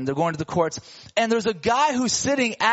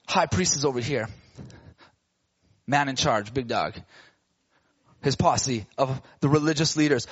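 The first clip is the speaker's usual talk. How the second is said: lower, heavy voice for the man in charge; menacing big dog; 8 semitones lower than usual. A narrator's reading. Introducing the menacing high priest.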